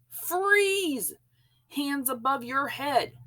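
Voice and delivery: shout. A narrator's reading. Policemen surrounding George, shouted command. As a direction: bark the order sharply. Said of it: "there was a shout".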